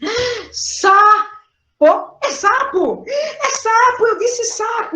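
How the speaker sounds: high, slow, thrilled cry of sapo; child's excited discovery. Retold or imitated. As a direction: squeal it like a child who just got it. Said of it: "Ela fez".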